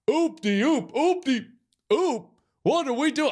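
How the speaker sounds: high, loud mock quarterback call; movie play call. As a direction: belt it out like calling a play on the field. Quoting Varsity Blues play call.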